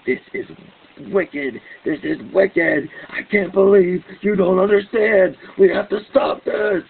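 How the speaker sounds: a re-enacted outburst, pitch climbing as he shouts; angry yelling. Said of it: "I will get very angry and start yelling".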